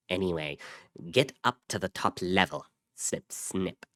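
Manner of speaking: lightly altered walkie-talkie voice; distorted radio voice. A narrator's reading. Pico answering his brother over a walkie-talkie, distorted. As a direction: talk as if through a small handheld radio. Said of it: "Pico's distorted voice came from a small handheld radio".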